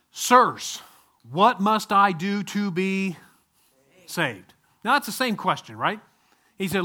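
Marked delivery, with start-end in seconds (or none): 0.1-4.5 loud, slow desperate plea; pleading jailer. Acted. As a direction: cry out to Paul for help. Jailer's plea in retold scene.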